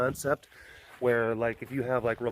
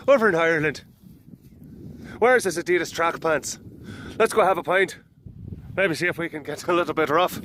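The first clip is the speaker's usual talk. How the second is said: put-on Irish accent, a touch higher; Irish tough accent; 4 semitones higher, 3 dB louder than usual. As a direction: act the Irish lad out for a pint. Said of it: "some Irish tough".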